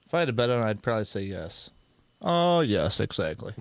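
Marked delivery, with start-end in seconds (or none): 2.2-3.5 a hint of the pompous teacher; mocking the teacher's catchphrase; teacher's "Oh, yes". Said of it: "Does he still talk like that".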